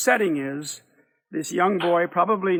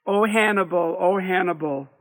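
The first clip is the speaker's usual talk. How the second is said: mocking her; 3 semitones higher, 5 dB louder than usual. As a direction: throw her words back at her mockingly. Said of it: "he mocks her".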